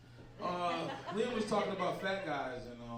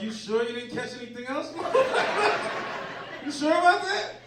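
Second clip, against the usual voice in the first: mock accusing yell; 8 semitones higher, 9 dB louder than usual. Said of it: "I was like".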